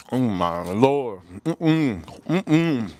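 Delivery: low, slow mouth-full groan; savoring moan. Real, not acted. Savoring bite of chicken.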